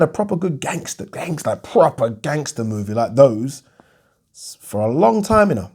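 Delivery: slipping into a Jamaican lilt; Jamaican accent. Real, not acted. Lamenting the lack of gangster movies, accidental Jamaican accent. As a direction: let a Jamaican accent creep in unplanned. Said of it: "I'm turning into a Jamaican accent there".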